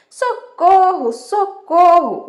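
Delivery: loud, high, drawn-out cry for help; shouting for help. Acted. Shepherd boy tricking the villagers, shouting for help. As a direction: call out high and slow, stretching each word. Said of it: "começou a gritar".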